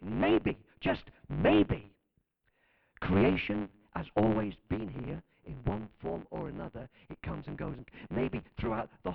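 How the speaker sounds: breathy, dropped-pitch maybe, half-whispered; mock awed scientist. Preacher mimicking the scientist, hushed mock awe. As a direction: savour the maybe like a mystery. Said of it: "This is what he said".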